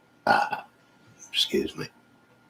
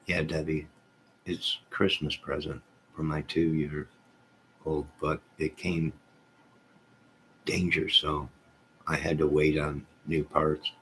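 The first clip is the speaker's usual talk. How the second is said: misread chat message. Real, not acted. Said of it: "Oh, wait".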